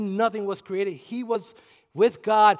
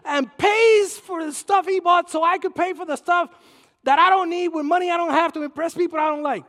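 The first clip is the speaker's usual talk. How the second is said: loud, higher mock heckler, slowed; a fed-up shopper yelling at him; hammed-up shout of the impatient line; annoyed bystander; 8 semitones higher, 7 dB louder than usual. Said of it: "people over there ... looking at me and say".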